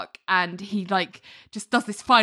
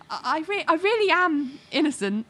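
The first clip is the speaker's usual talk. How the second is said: imitated stammering protest; 8 semitones higher than usual. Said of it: "she just ends with".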